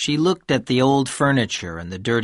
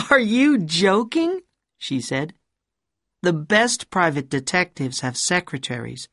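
high, scornful woman's voice; mock his shabby office; rude woman's voice; 5 semitones higher than usual. A narrator's reading. Woman character voice.

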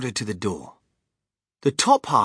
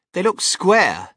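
put-on spoiled girl; 6 semitones higher, 8 dB louder, slower than usual.

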